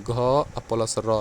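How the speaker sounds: घ plus र, each sound drawn out slowly and apart; spelled out slowly. Shown as a demonstration. Teacher spelling घर for students, slow and separate. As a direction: break घर into घ and र, very slowly. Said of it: "धीरे से बोल रहे हैं".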